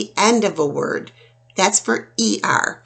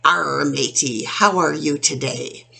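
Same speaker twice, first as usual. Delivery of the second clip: pirate. Shown as a demonstration. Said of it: "Think of a pirate".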